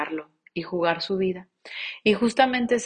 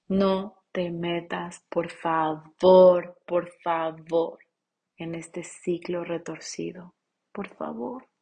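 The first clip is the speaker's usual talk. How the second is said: pleading; slower than usual. Acted. Pleading with viewers.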